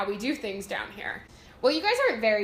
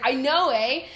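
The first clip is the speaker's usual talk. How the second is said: Canadian eh; 2 semitones higher, 5 dB louder, slower than usual. Retold or imitated. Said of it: "I came out of the room, and I was like".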